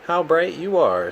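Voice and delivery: high and loud, full of wonder; a crab dazzled by light; delighted high admiring crab. Acted. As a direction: marvel at their glow.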